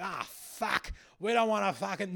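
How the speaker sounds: high-pitched mock racist outburst; racist No voter. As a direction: whine it high, mocking an outraged bigot. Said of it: "all these racists are like".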